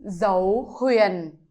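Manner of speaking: dấu huyền said low and falling. Shown as a demonstration. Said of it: "Second tone is".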